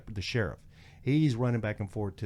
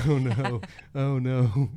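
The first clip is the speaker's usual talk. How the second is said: loud, higher-pitched oh-no; mock dismay; 4 semitones higher, 6 dB louder, much slower than usual. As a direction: imitate a companion's alarm, for laughs. Travis panics at the defiance.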